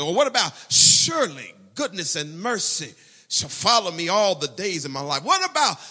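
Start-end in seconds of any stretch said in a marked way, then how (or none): 0.7-5.2 fervent scripture. Acted.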